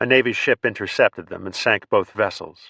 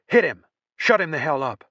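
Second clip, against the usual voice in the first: panicked yell; 7 semitones higher than usual. Acted. Frightened soldier yelling at others to hit him, higher desperate shout. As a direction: yell at them to knock him out.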